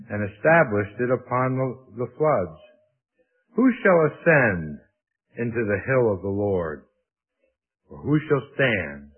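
measured, emphatic Bible reading; scripture reading. Acted. Preacher reading the psalm to the congregation, emphatic scripture reading. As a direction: read the psalm out with weight on key words.

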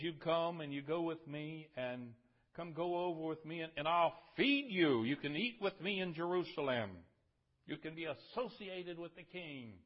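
loud urgent invitation. Acted. David urging old Barzillai to his table, loud and insistent.

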